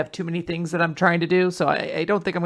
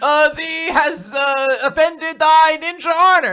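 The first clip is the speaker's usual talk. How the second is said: high, slow, mock-archaic and indignant; offended ninja voice; 11 semitones higher, 7 dB louder than usual. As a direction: play a wounded fake samurai. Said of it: "you don't talk like a ninja".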